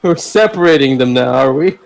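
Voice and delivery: normal talking voice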